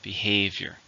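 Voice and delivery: "Behavior" with the weight on HAVE; stress on second syllable. Shown as a demonstration. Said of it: "stress on the second syllable".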